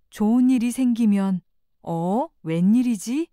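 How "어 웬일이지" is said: mild surprise, questioning rise at the end; lightly acted puzzled surprise; pleasantly surprised. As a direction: react to an unexpected bit of good luck. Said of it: "덤으로 얻은 것처럼 기뻐하면".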